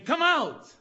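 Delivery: loud, high commanding shout; Jesus. Acted. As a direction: call the dead out with a shout. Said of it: "Jesus will say again".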